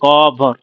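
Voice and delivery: ক on its own, বর said together; split after first syllable. Shown as a demonstration. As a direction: separate ক from বর. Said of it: "বরটা হচ্ছে একসাথে বলবি".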